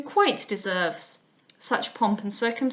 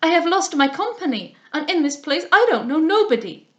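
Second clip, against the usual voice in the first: put-on loud French-accented distress; raised voice, hammed-up French accent; foreign accent; 4 semitones higher, 7 dB louder than usual. A narrator's reading. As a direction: plead as a flustered Frenchwoman. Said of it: "There was something foreign in her accent".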